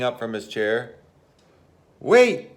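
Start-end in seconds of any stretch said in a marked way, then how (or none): 2.0-2.5 high, loud plea; crying out. Acted. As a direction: call out to stop him leaving. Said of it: "cried Bear".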